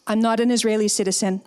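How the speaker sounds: ordinary talk, nothing marked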